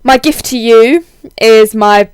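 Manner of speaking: husky voice from a heavy cold; hoarse, under-the-weather husky voice. Real, not acted. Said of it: "my very husky man voice at the moment".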